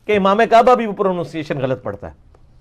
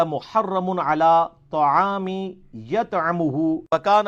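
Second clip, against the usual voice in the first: very slow, drawn-out melodic tilawat; slow chanted Arabic recitation; Quran recitation; 3 dB quieter, much slower than usual. Acted. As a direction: stretch every vowel like a qari.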